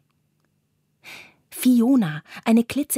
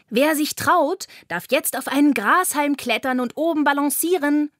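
higher, lively call to the little animals; 6 semitones higher than usual. A narrator's reading. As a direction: invite them up with a cheery call. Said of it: "ruft Carla". (munter rufend)

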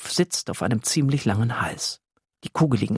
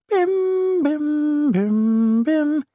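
high, louder bell-like bim bim; ice cream bell imitation; 4 dB louder, much slower than usual. Narrator imitates the ice cream van's bell, high and ringing. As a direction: ring it like a van bell.

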